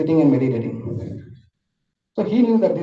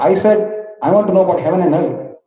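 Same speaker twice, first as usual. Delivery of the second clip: raised, fast, impatient demand; a little angry; 4 semitones higher than usual. Acted. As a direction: press him sharply, getting annoyed. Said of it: "He gets a little angry".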